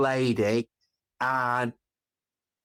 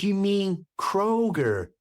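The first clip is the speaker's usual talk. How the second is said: matter-of-fact; 4 semitones higher than usual. Retold or imitated. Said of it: "she said".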